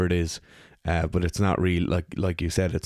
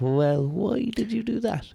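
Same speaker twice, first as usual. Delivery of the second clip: incredulous; slower than usual. Retold or imitated. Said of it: "And you're like".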